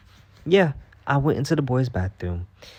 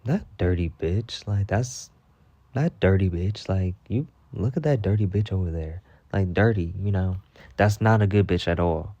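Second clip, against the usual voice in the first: disgusted gossip. Shown as a demonstration. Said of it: "Horrible bitch is like".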